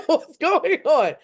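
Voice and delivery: mock suspicious what's going on; amused suspicion. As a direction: stretch it out, half laughing at him. Friend acting weird, laughing.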